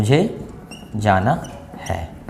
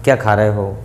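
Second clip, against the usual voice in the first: polite tone; 4 semitones lower, slower than usual. Shown as a demonstration. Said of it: "अगर ये बोलो".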